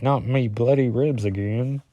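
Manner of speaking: lightly attempted British accent; bad British accent. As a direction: make a clumsy stab at sounding British. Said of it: "my British accent's as bad as".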